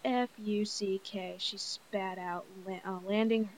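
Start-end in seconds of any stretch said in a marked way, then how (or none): 0.0-1.4 F U C K said as four separate slow letters; spelled out letter by letter. A narrator's reading. Cheerleader spelling out F U C K as a cheer, letter by letter. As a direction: spell out F U C K, one letter at a time. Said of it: "she spells out".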